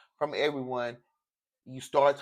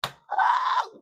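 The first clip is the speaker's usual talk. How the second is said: choked-up gasp. Real, not acted. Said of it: "y'all about to make me cry".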